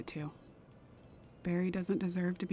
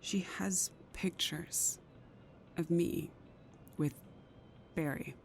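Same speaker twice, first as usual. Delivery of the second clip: slow, fearful whisper; 5 dB quieter than usual. Acted. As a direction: whisper it slowly, dreading it. Confessing the reporter's photos.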